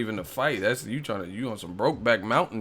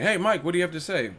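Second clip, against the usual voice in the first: mock interviewer; 6 semitones higher, faster than usual. Interviewer voiced asking Mike.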